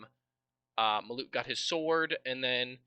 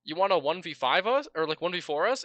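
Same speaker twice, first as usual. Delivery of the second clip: loud, hyped dude-bro challenge; big bro swagger, pushed loud; 4 semitones higher, 6 dB louder than usual. Acted. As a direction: talk like an impressed bro daring a buddy. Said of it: "duding it out like dude bros".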